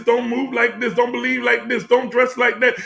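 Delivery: building, impassioned sermon with long pauses; preaching. Acted. Preacher urging the congregation toward their authentic truth, impassioned. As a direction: swell and sink like a preacher at full force.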